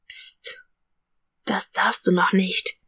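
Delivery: soft secret whisper, no voice at all. A narrator's reading. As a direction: hush the child gently in a whisper. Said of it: "flüstert". (geflüstert, ganz leise)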